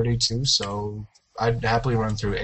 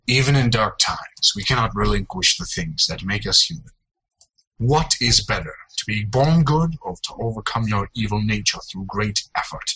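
movie trailer voice. Pretend. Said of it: "read them out loud in an epic voice".

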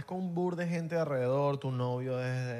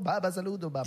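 put-on light Arab accent; 4 semitones higher than usual. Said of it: "si todavía habla así".

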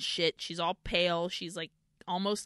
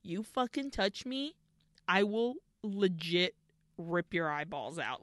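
silent threat voiced; 3 dB quieter than usual. Voicing Alucarda's glare at the nun, mock menace. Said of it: "her face was fully like".

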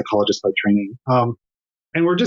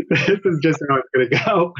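amused laughing; 3 semitones higher than usual. Real, not acted. Child interrupts the interview, laughs.

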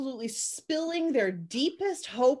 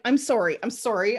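incredulous; 2 semitones higher, 3 dB louder than usual. Retold or imitated. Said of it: "And I'm like".

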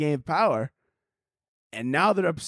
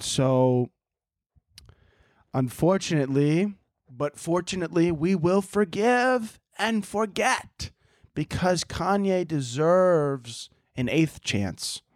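mock solemn; 3 semitones higher, slower than usual. Mock solemn corporate pronouncement.

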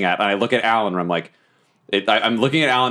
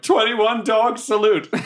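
slow, much higher, mock grave; solemn announcement; 11 semitones higher, much slower than usual. Calling the salute at the dwarf's funeral, mock solemn. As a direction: announce it like a hammed-up ceremony.

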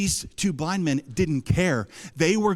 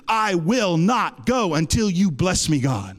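slow, emphatic vow of faith; with conviction; slower than usual. Retold or imitated. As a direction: refuse to let go, word by word. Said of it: "confession that came from a conviction".

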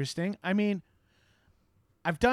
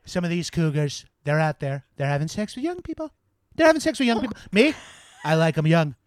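Donald Trump; 3 dB louder than usual. Retold or imitated. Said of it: "I now can do a good Donald Trump impression".

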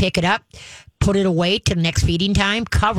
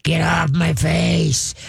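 mother dog growl; much slower than usual. Retold or imitated. Trainer voicing the mother dog warning pup, slow growl. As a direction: growl slowly like a mama dog. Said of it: "Ma would give a growl like".

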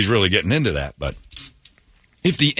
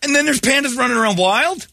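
incredulous; 11 semitones higher than usual. Real, not acted. Incredulous reaction.

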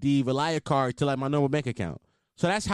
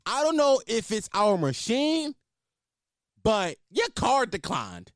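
higher, slow, drawn-out blurt; mock waitress announcement; 4 semitones higher, slower than usual. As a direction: imitate the waitress spelling it out for the whole room. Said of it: "Loud as fuck, just like that to everybody".

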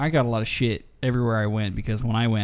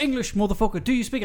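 Samuel L. Jackson; 10 semitones higher than usual. Retold or imitated. Friend demanding English, a hammed-up Samuel L. Jackson bark. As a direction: bark it like a movie hardman, hammed up. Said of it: "Samuel L".

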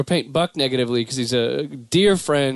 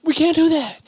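Obama impression; 10 semitones higher than usual. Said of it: "he does that little thing".

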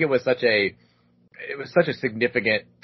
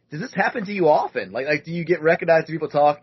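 higher, eager questions; light girl voice; curious girls; 4 semitones higher than usual. Retold or imitated. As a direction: ask like an impressed girl. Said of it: "the girls are like".

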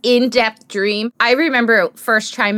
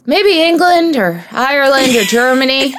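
laughing sleep quote; 4 semitones higher than usual. Retold or imitated. Quoting husband sleep talking.

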